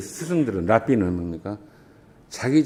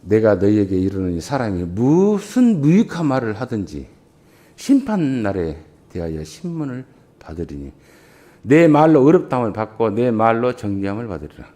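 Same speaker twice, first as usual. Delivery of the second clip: scripture reading; 2 semitones lower than usual. Acted. Reads scripture aloud.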